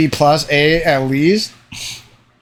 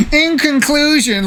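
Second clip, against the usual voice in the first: put-on much higher, slow, pompous little kid; mocking kid voice; 11 semitones higher, slower than usual. Mocking his younger self's school speeches in a high, slow kid voice. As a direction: ham up a smug schoolkid reading his essay. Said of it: "like, little idiot kid".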